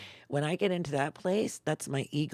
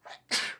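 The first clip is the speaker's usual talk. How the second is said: sneeze. Real, not acted. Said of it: "I'm gonna sneeze".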